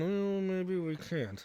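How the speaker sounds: high, slow, drawn-out tone of realization.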